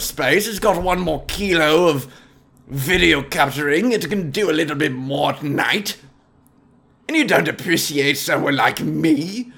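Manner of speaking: lightly voiced haughty gentleman boasting; mock-aristocratic brag; pompous Apple snob. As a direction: puff up about phone storage. Snob's iPhone monologue.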